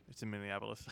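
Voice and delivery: low, very quiet mock reply; imitated curt answer. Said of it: "He's like".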